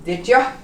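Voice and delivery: Did ya quick and blended. Shown as a demonstration. Teacher models Did ya for learners, casual. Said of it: "it's almost like an A".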